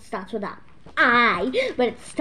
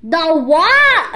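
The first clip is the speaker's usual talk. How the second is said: louder, baffled "The what?"; loud puzzled what; 5 semitones higher, 11 dB louder than usual. Real, not acted. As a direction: call it out confused. Louder repeated question.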